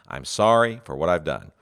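plain sincere "sorry for"; sincere apology. Shown as a demonstration. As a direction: own the fault simply. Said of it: "make it a true apology".

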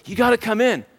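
mildly acted entreaty; pleading. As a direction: plead with a lifted pitch. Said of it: "He pleads with them".

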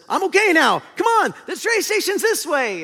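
sudden high, loud, chirpy recovery; Bing Bong. Acted. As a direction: call out brightly, instantly over the upset. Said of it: "Bing Bong pops up".

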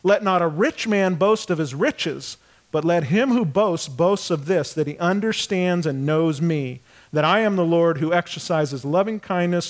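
measured, solemn read; scripture reading. Acted. Pastor reading Jeremiah to the congregation, solemnly. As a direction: read it as holy text.

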